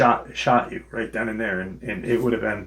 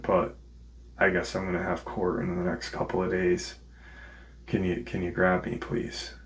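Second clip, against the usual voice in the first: hushed, lowered voice of a humbled caller; subdued retold plea; 2 semitones lower, 6 dB quieter than usual. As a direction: quietly imitate a son calling dad for help. Acted phone call to his dad.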